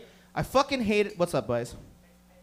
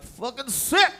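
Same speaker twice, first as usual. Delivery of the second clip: higher, amazed drawl; impressed mock stoner; 4 semitones higher, slower than usual. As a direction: sound amazed by the deal. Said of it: "And you're like".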